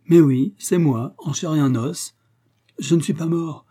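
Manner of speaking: high, loud, lively confirmation; joyful reassurance. A narrator's reading. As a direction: burst out that it's really you. Joyful reunion after feared death.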